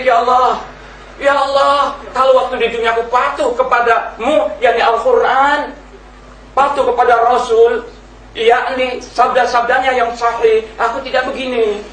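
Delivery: high, pleading wail to God; crying out in anguish. Acted. Preacher voicing the damned in hell, anguished pleading cry. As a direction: beg as one already burning in hell. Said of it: "orang ini menjerit-jerit".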